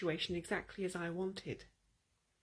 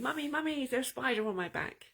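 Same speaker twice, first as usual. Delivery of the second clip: higher, quick, mock panicked child calling for mum; mild mock panicked scream; 5 semitones higher, faster than usual. Small boy running home to his mother, mock panicked. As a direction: play a scared kid running home crying out. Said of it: "it's screaming".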